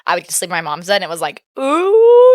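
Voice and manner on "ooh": high, loud delighted ooh; excited squeal. Retold or imitated. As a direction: squeal it like a thrilled kid. Childhood joy, sleeping in mom's bed.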